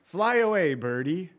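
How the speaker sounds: a preacher mimics the doom messenger's sneer; mocking dismissal. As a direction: shoo him off like a bird. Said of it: "he's telling David".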